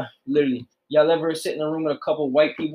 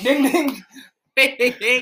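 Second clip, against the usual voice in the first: ding ding; 9 semitones higher, much slower than usual. Pretend. Game-show correct answer chime.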